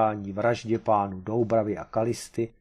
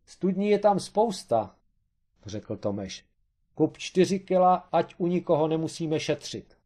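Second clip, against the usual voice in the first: eager urging; 7 semitones higher than usual. A narrator's reading. Tomeš urging Kareš to buy more, excited. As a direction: go all in, no holding back.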